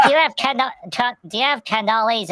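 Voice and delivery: lightly voiced eager hedgehog; Pudgy voice. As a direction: trip over the words in excitement. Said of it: "And Pudgy's like".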